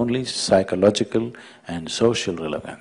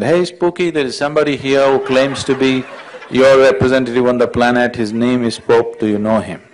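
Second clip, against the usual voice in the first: loud, high call once more; raised voice; 4 semitones higher, 5 dB louder than usual. Acted. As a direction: shout it in to Spooky. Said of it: "once again raised his voice and said".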